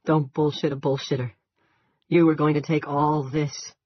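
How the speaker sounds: loud, slow scornful jeer; mock him with contempt; sneering. A narrator's reading. Andy sneers at chief.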